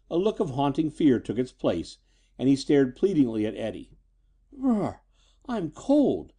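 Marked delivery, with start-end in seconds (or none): 4.5-6.3 high-pitched sudden complaint; exclaiming. A narrator's reading. Daughter abruptly changes the subject, exclaiming. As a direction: blurt it out in a girlish high voice. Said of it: "Lena exclaimed irrelevantly".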